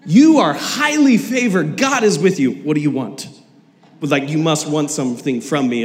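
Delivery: laughing, mock wary and suspicious; Mary eyeing the angel with mock suspicion. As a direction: play it like she smells a catch. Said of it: "that's trust issues there".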